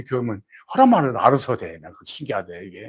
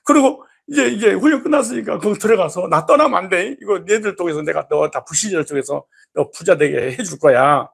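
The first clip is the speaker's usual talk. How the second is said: voicing God; 3 semitones higher, 3 dB louder than usual. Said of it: "이렇게 하나님 그런 거야".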